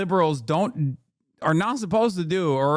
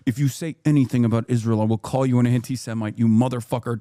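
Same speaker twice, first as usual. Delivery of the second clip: mock pro-Israel accuser; 8 semitones lower, 3 dB louder, faster than usual.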